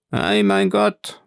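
hoch und gedehnt, als Frau gesprochen; aufgeregte Wirtsfrau. A narrator's reading. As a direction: ein erstaunter Ausruf der Frau, langsam. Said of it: "sagte die Frau mit großer Zungenfertigkeit". (Wirtsfrau ruft dem Juwelier aufgeregt zu, höher)

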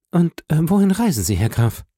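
höhere Frauenstimme, neugierig fragend; Julie, fragend. A narrator's reading. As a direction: mit heller angesetzter Stimme höflich nachfragen. (leicht gespielte Julie, höher und fragend)

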